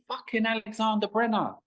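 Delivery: high, sudden exclamation of recognition; surprised recognition. Retold or imitated. Recognising the artist from two weeks ago, surprised high exclamation.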